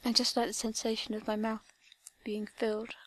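slow, breathy seductive whisper. Acted. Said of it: "Slowly and seductively".

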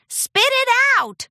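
high, loud impatient demand; urging. A narrator's reading. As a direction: push her to confess. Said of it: "Applejack urged".

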